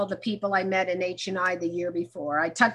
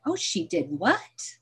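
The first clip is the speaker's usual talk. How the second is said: shocked gossip; 2 semitones lower, slower than usual. Retold or imitated. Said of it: "I'm like".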